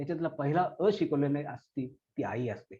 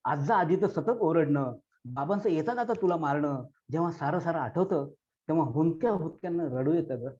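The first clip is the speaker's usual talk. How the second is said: poem recitation. Acted. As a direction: recite as a daughter addressing her dead mother. Recites long poem over music.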